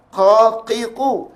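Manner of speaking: Qa, qi, qu with thick qaf and open mouth. Shown as a demonstration. Teacher drills the proper qaf, open demo. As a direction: recite Qa, qi, qu as separate model syllables. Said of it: "membuka rongga mulut".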